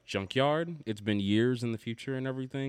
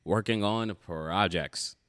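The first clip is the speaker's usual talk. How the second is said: formal news anchor read; newscaster voice; 4 dB louder than usual. Shown as a demonstration. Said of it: "my newscaster voice on for this".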